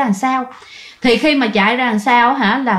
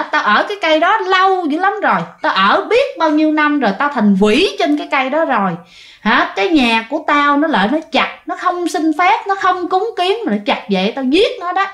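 higher, menacing spirit; demon voice; 4 semitones higher than usual. Acted. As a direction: warn them like a vengeful tree spirit. Possessed woman voicing demon. (con quỷ nhập xác đe dọa, giọng cao hơn)

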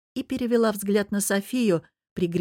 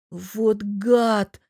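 growled; 3 semitones higher, 4 dB louder than usual. Acted. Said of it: "прорычала София".

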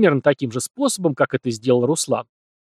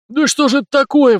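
much higher, louder squealing howl; shrieking wail; 12 semitones higher, 7 dB louder than usual. A narrator's reading. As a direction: squeal it to the whole market. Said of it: "вдруг визгливо завопил толстяк".

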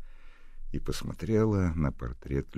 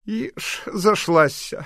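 mocking old woman; 10 dB louder, much slower than usual. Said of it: "прокомментировала бабуся Колпакова".

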